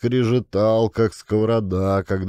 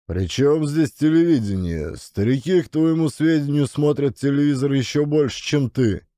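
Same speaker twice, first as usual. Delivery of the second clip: indignant retort; 5 semitones higher than usual. Acted. Father snaps back at his son.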